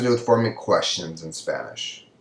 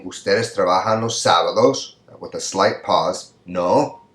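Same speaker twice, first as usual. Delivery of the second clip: "No" rises as a checking tag; tag question. Shown as a demonstration. Teacher explaining tag questions to students, pause and rise. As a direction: pause after "sábados", then "No" lifted. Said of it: "and then the voice goes up".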